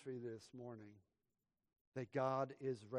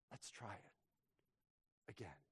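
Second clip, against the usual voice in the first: very soft, lower tender father; gently; 5 semitones lower, 13 dB quieter than usual. Acted. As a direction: breathe it tenderly, almost nothing. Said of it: "my father said gently".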